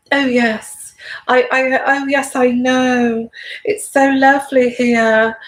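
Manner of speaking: lightly put-on genteel royal voice; a hint of a sweet, genteel duchess; Kate impression. Vlogger mimicking Meghan copying Kate, lightly imitated genteel voice. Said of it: "copying Kate".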